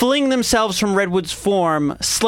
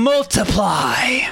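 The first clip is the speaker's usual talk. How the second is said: slow, commanding shouted incantation; shouted spell; 3 semitones higher, much slower than usual. Acted. Wizard calls out spell.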